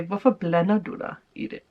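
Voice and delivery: "Hvorfor blander du dig i det?" said in native Danish; naturally spoken Danish; Danish phrase. Shown as a demonstration. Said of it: "In Denmark you say".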